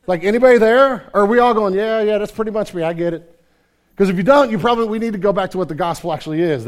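fiery congregation challenge; full-force preaching. Acted. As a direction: call out to the whole room.

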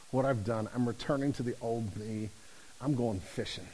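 low, quiet voice of giving up; resigned. Acted. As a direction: sink softly under the weight, defeated. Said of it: "feeling like there's nothing you can do".

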